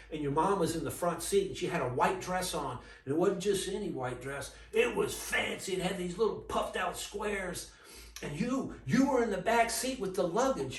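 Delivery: high, loud, eager recollection of the past; excited retelling. Retold or imitated. Old man to narrator, reliving the day he saw his family, excited. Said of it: "And he's like".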